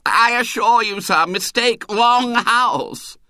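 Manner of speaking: high, loud moaning plea. Acted. Choirmaster clinging to gatepost, high moaning plea. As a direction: moan it in despair.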